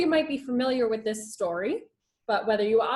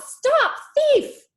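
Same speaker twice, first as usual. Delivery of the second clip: high loud angry shout; 8 dB louder than usual. Acted. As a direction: yell after the thief. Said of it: "calling out".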